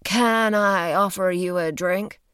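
slow, flat, even robot voice; robotic level voice. Acted. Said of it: "asked Milgram's robotically level voice".

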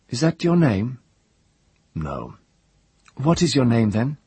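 high, demanding questions; imperious girl. Acted. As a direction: press him for answers. Priestess questioning the prisoner.

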